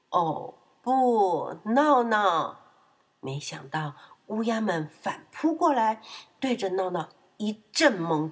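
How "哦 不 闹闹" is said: loud, drawn-out cry of alarm; dismayed outcry. Acted. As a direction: groan it out in mock dread. Refrain of dismay at piglet. (拖长声音惊呼)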